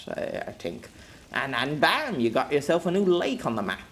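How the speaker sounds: gruff commander voice; commanding officer. Acted. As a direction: rattle off orders to the squad. Jem explains the cannon.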